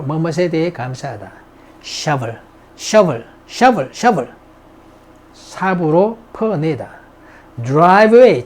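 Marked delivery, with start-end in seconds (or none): 2.8-4.3 slow drill. Shown as a demonstration. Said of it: "drill repeat".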